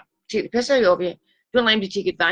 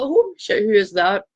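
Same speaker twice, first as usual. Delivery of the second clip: mock shock; 4 dB louder than usual. Shocked at own photo.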